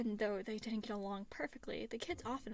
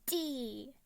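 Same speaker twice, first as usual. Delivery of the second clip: excited yell; 3 semitones higher, 3 dB louder than usual. A narrator's reading. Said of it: "the boy yelled".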